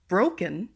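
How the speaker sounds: "broken" with the first syllable stressed, BRO-ken. Shown as a demonstration. Teacher giving quiz answer number two, BRO stressed in "broken". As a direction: lean on BRO, let the end of "broken" drop. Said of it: "the B R O is stressed".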